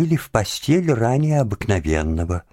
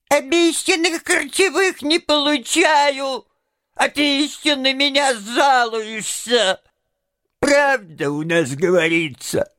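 aggrieved imp; 5 semitones higher than usual. A narrator's reading. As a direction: list your services in a put-on high creature voice. Imp lists grievances in story.

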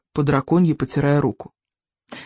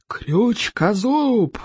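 roar; 5 semitones higher, much slower than usual. Acted. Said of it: "взревел Стоик".

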